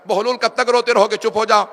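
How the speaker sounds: booming preacher voice as the caliph; caliph calling out. Acted. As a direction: call out loudly for him to stop crying. Caliph tells Bahlul stop crying.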